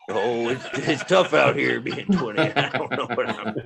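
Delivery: mock self-pitying twenty-year-old; lightly voiced complainer; imitating a sulky youth; whiny young man.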